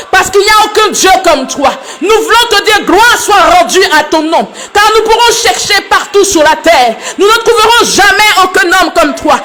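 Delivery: impassioned praise to God, voice pitched well up; fervent prayer. Real, not acted. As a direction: pray aloud with mounting fervour, pitch climbing high.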